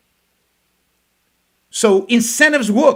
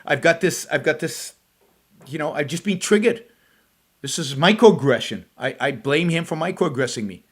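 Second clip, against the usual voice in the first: mock triggered viewer; 2 semitones lower than usual. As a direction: pretend to be losing it, half-hearted. Mocks a triggered, dismayed viewer.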